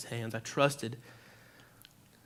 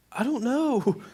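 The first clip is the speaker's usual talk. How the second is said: dazed reply; 11 semitones higher, 5 dB louder, much slower than usual. Retold or imitated. Dazed reply after rescue.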